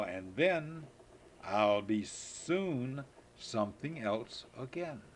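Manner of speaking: put-on slow, lilting read-aloud for a child; poem reading. Grandpa reading a birthday poem to his granddaughter, slow and lilting. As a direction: read it slowly and sweetly to a small child.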